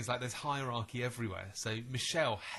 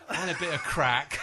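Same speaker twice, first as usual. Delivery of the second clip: louder, laughing through the confession; laughing mock boyfriend; 5 semitones higher, 10 dB louder than usual. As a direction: blurt it out, cracking up. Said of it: "the guy goes".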